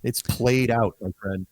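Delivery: low, dry, unimpressed; a touch of world-weary dismissal; weary retort. Retold or imitated. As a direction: knock it down like an old tune. Speaker retells his own retort.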